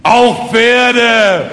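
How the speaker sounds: high, loud, ringing declaration; proud conviction. A narrator's reading. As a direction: proclaim it proudly with full conviction. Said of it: "sagte stolz im Brustton der Überzeugung".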